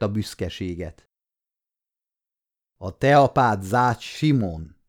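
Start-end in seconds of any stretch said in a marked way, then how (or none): 2.8-4.8 slow, stunned question; the boy can hardly believe the name; astonished question. Acted. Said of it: "kérdezte a fiú elképedve". (lassan, elképedve)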